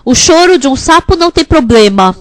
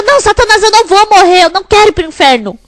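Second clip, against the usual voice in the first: higher, firm rebuke of Satan, speeding up at the end; defiant shout; 6 semitones higher, faster than usual. Pretend. Congregant rebuking Satan, higher and defiant. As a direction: shout no at Satan and rush the last line. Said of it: "Então você grita".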